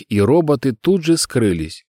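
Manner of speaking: usual speaking voice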